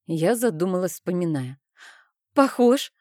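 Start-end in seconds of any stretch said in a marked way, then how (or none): 2.3-2.9 glad. A narrator's reading. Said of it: "обрадовалась я".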